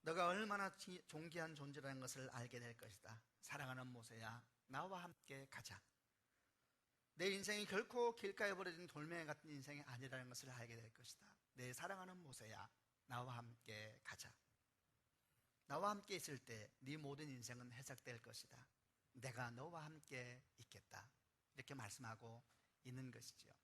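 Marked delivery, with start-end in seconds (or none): 0.0-18.6 a hint of a tender divine voice; tender voice of God. God answers weeping Moses tenderly. 19.1-21.1 God's tender vow, drawn out slowly; tender promise. Acted. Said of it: "울부짖는 모세에게 주님이 말씀하시는 거예요".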